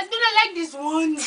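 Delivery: amused mock African accent; African accent imitation. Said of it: "but his accent".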